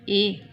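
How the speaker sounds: ए held as a long vowel. Shown as a demonstration. Teacher showing umlaut long sound, ए held long. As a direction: draw out the ए. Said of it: "long sound में करेगा".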